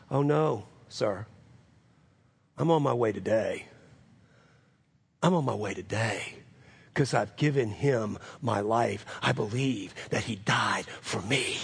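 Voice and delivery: low, measured, sincere; earnest testimony. Retold or imitated. Sick man answering the pastor, low and sincere. Convert gently corrects the pastor.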